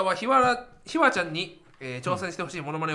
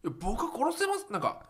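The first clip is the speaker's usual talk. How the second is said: Suzuki impression; 7 dB quieter than usual. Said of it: "鈴木さんに顔がそっくり".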